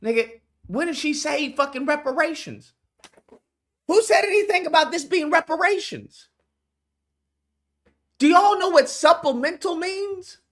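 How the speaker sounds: high, incredulous demand; can't believe what he's hearing; exasperated disbelief. Real, not acted. Streamer reacting to commentator, high exasperated disbelief.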